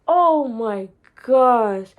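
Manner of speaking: slow, drawn-out amazement; awed oh my gosh. Retold or imitated. Recalling the acceptance, slow awed disbelief. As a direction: let it sink in, slowly. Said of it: "I'm getting excited".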